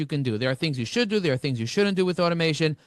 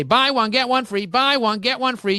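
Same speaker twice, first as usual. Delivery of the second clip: hammed-up market crier calling out; mock market yelling; 4 semitones higher than usual. Networking coach mocks a chicken-market hawker, mild mock yell. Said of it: "yelling like an idiot".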